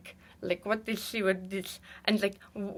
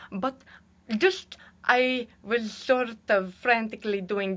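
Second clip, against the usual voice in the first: lightly put-on halting lecturer voice; impression of him. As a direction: ramble with long hesitant pauses. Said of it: "That is how you know I am doing inauthentic representation".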